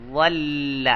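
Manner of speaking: ول said as dhall with a heavy emphatic ض; Arabic ض sound. Shown as a demonstration. Teacher showing students the emphatic Arabic sound. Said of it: "ضوا کے ساتھ".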